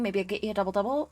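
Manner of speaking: a light Canadian accent on a Tim's run offer; casual Canadian small-town offer; speaking Canadian. Shown as a demonstration. The speaker shows friends how she speaks Canadian when drunk. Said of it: "I started speaking Canadian".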